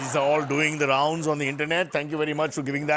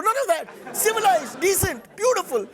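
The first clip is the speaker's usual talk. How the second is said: excited praise; 12 semitones higher than usual. Acted. Host praising, raised excited pitch.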